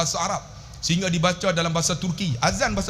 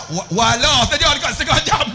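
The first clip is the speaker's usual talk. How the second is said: mock recitation; 5 semitones higher, 7 dB louder, faster than usual. Mimics a slow struggling Quran reciter.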